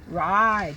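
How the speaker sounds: teacher sounding out a word; sounding out ride. Shown as a demonstration. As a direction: ride with a long I. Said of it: "The E tells the I to say I".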